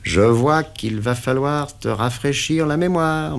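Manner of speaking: a touch of menace; menacing. Acted. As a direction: warn the prisoner of pain. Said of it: "menaça-t-il".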